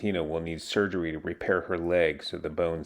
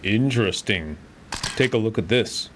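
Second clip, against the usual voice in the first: loud, higher game voice line; intrigued doctor; 4 semitones higher, 6 dB louder than usual. Acted. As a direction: call it out like a curious doctor.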